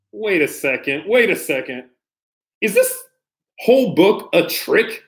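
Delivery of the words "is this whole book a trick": mock suspicion. Reader squeaks a suspicious question to the kids.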